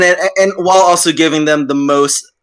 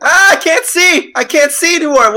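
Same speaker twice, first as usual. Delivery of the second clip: mock panic; 12 semitones higher than usual. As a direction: yelp that you've gone blind. Pretend blinded, crying out.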